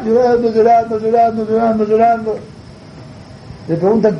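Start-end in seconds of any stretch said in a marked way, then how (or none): 0.0-2.4 sustained wailing repetition on one note; mock crying. Storyteller shows Yossi crying on and on, monotone mock wail. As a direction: draw each word out like an imitated sob. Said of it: "otra vez Yossi llorando".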